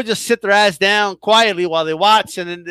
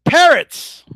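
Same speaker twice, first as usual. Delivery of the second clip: squawked like a parrot; high squawking parrot word; 6 semitones higher, 4 dB louder than usual. Pretend. Mocking people who parrot, as a parrot squawk.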